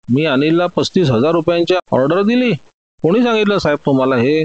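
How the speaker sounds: ordinary delivery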